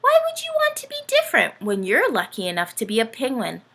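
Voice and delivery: fast, lightly put-on uncle voice; a breezy uncle brushing it off; Uncle Benny voice. Uncle scolding his niece, lightly voiced.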